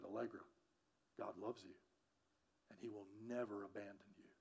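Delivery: a quiet, tender second telling. Retold or imitated. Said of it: "Sometimes you have to say it three times".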